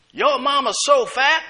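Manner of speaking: a playful mock taunt; playing the dozens. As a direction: throw the schoolyard jab. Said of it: "playing the dozens".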